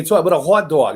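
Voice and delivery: lightly put-on East Coast accent. Shown as a demonstration. Host showing how the East Coast talks, East Coast accent. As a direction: say it with a hint of East Coast twang. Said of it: "they go up that, that, that accent".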